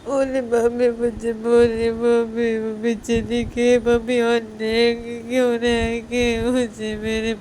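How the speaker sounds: slow, drawn-out tearful wail; wailing little girl. Acted. Little girl wailing to her father that she wants her mother. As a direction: stretch each word like a child's sob.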